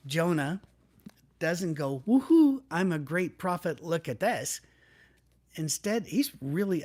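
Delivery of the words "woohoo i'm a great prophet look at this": mock whoop of glee. Preacher mocking Jonah as a cheering, proud prophet, with a loud whoop. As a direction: play the smug, cheering prophet he never was.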